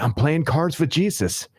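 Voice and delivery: drawn-out, matter-of-fact declaration; slow deadpan quote. Retold or imitated. Regular at the bar tells the manager calmly, slow and deadpan. Regular repeats his answer.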